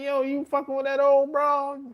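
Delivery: high, sustained incredulous question; playfully scandalized, high voice; mock disbelief. Acted confronting a buddy, incredulous.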